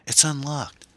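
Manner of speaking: high-pitched shout. A narrator's reading. Passenger at the rear window, shouting to the driver. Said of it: "Erin shouted".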